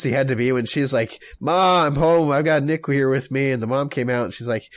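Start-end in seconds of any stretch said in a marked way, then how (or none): 1.4-3.5 raised, higher call into the house. Retold or imitated. Daughter announcing a guest to her mom, calling out. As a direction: call out to mom as you arrive.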